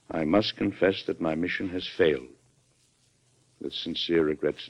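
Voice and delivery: measured, even letter reading; reading a letter aloud. Acted. President reads a governor's letter to his secretary, measured reading aloud. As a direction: read it out steadily and formally.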